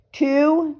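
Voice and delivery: high, forceful barked count; barking. A narrator's reading. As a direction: bark the number as a warning. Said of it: "Jasper Junior barked again".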